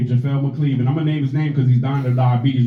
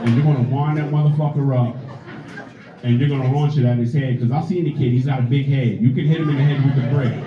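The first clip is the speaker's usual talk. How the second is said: exasperated mom; 3 semitones lower than usual. Retold or imitated. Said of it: "She said".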